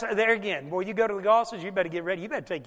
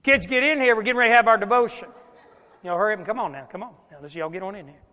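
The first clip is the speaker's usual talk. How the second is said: put-on louder, hurried call to the kids; 7 dB louder, faster than usual. Dad hurrying kids to devotion, louder and impatient. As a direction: hurry them in, getting impatient. Acting parent calling kids again.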